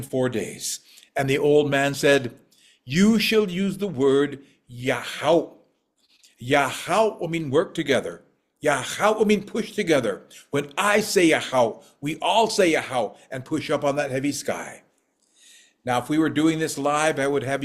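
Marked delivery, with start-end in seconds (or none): 2.8-14.8 put-on solemn old man. Old man gives the sacred word.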